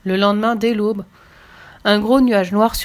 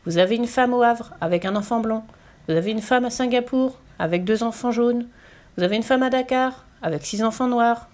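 higher, repeating sing-song list; rattled-off recital; 3 semitones higher than usual. A narrator's reading. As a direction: reel off each item on the same rising tune. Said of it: "se mit à débiter très vite".

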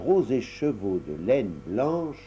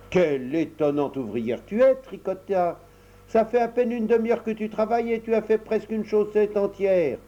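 admiring mother; 9 semitones higher than usual. Acted.

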